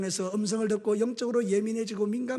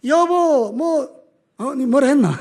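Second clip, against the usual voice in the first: imitating a loud, higher call to his wife; loud talking; 5 semitones higher, 6 dB louder, much slower than usual. Preacher mimicking himself shouting back at his wife. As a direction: shout it across the house like a husband who doesn't listen. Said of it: "큰 소리로 이야기해요".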